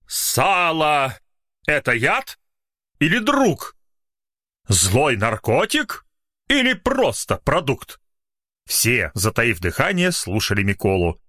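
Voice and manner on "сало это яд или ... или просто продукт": slow, drawn-out recitation, high on the questions; poet reciting a ballad. Acted. Poet reads his ballad to the literary club, slow and solemn. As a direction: declaim it like a village poet. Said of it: "начал читать свою балладу о сале".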